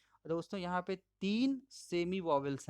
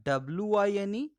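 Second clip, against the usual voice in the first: spelling out letters; 4 semitones higher, 6 dB louder than usual. Shown as a demonstration. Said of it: "इसके बीच का difference".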